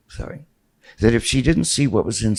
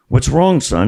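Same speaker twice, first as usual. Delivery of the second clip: higher, louder staged worry; mock alarm; 4 semitones higher, 5 dB louder than usual. Dad calls to son on the patio, with staged alarm. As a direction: act alarmed for the guests.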